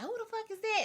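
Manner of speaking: a high, sharp imitation of the furious father; angry dad. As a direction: play the dad demanding who is there. Angry dad voiced, pitch jump.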